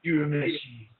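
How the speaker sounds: mock anime character calling out a name; Kuwabara. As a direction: imitate his signature call of the name. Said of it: "I can only think of Kuwabara as".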